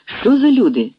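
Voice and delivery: put-on an old woman startled at the door; alarmed. A narrator's reading. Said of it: "стривожений жіночий голос".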